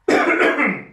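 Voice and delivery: sudden dry cough; real cough. Real, not acted. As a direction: cough hard, mid-sentence. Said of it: "Oh man, I'm choking here".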